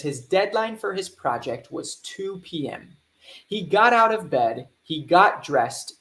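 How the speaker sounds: clear, paced reading aloud for learners; English story read to a class. Acted. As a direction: read the story steadily so students follow. Reads the lesson story.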